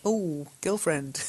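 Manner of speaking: put-on slow, slangy drawn-out girlfriend. Shown as a demonstration. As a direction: say it like a sassy friend. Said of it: "sort of slangy".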